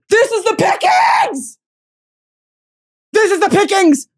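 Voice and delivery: high, loud ranting shout; mock outraged shout. Real, not acted. Host ranting about greasy-haired dudes, loud. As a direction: yell it in hammed-up outrage.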